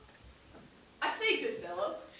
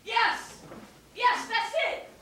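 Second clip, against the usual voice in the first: excited relief; 6 semitones higher, much slower than usual. Acted. Traveler finally understood by the sailors, excited. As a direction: jump on it eagerly.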